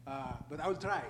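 heavy Ethiopian accent in English; English spoken with an Ethiopian accent. Real, not acted. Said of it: "I have a heavy Ethiopian accent".

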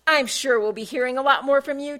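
a touch of a curt snap; mild snap. Acted. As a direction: brush her off curtly. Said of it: "Taffy snapped".

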